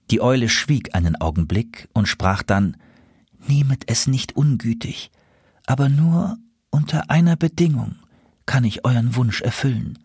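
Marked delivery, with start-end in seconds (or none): 3.5-10.0 higher-pitched, hesitant owl princess; lightly voiced princess making terms; apologetic owl princess. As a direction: set your condition politely, with pauses. Owl princess sets condition.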